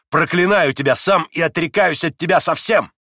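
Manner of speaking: emphatic, heated declaration; vehement curse. A narrator's reading. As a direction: curse a father on the way out. Son curses his father leaving.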